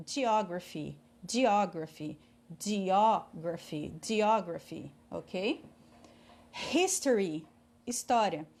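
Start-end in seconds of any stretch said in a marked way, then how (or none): 0.1-4.9 "geography" carefully repeated, PH said as F; PH como F. Shown as a demonstration. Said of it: "P H tem som de F". ("geography" articulado, com som de F)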